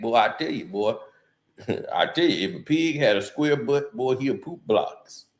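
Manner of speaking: a hint of Shannon bragging how tough he is; Shannon Sharpe impression. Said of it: "Shannon Sharpe even talking about".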